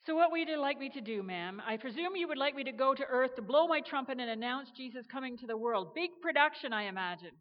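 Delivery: eager assumption. Acted. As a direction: rush ahead with a grand idea. Gabriel eagerly assumes grand plan.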